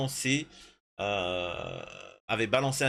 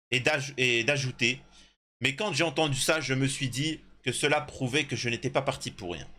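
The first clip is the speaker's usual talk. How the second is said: article lu à voix haute; 2 semitones higher than usual. Real, not acted. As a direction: lecture posée façon voix off de reportage. Reads an article aloud. (lecture de reportage)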